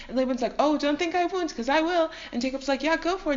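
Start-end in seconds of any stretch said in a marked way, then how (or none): 0.6-2.1 higher, defiant comeback; blustering threat. Acted. Laban taking up Jacob's challenge, blustering threat. 2.8-3.3 heated dare. Acted. Acted quarrel, Jacob dares him.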